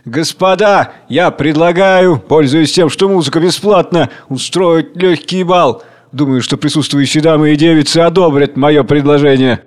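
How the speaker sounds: a touch of pompous flourish; showing off. Acted. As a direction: play the gallant host. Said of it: "несколько рисуясь".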